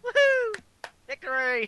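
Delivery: a real burst of joy at the win; excited whoop. Real, not acted. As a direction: cheer it like you just won. Celebrating a shared vote.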